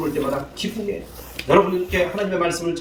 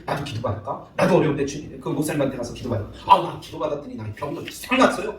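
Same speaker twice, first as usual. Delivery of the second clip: curious newcomer; 4 semitones lower, 4 dB quieter than usual. Retold or imitated. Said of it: "소문을 내야지 사람들이".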